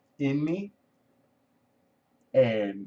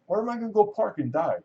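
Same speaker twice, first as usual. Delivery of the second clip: inner worrying; 9 semitones higher, faster than usual. Retold or imitated. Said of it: "with one part of my brain, I'm thinking".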